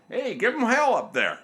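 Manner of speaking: high-pitched call up ahead; mock yell to the driver in front; retold yell. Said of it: "just yelled up to the dude".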